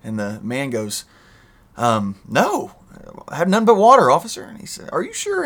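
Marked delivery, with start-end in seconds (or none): 1.8-4.4 put-on high, loud, innocent drunk driver fibbing. Driver to cop, a high hammed-up innocent protest. 4.9-5.4 much higher mock-doubtful cop; suspicious cop. Cop to driver, a high mock-suspicious question.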